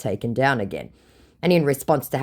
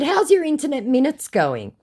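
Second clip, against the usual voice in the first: haughty retort; 13 semitones higher, 3 dB louder than usual. Retold or imitated. Mocking her scammer in chat.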